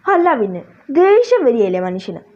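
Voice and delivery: wife losing patience with husband, annoyed. Acted. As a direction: show her temper rising. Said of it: "നീ ദേഷ്യപ്പെടാൻ".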